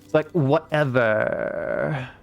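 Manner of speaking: very slow, drawn-out vocal fry; vocal fry valley girl. Shown as a demonstration. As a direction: drag out whatever with vocal fry. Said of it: "drawn-out vocal fries".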